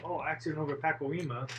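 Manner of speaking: mild traffic-news imitation; traffic reporter. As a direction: mispronounce Pacoima as a radio report would. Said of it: "traffic people".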